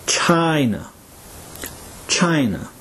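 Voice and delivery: China, with the long I stressed. Shown as a demonstration. Teacher models China for learners, stressing the long I. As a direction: lean on the first vowel of China, then fall. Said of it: "is the long I sound".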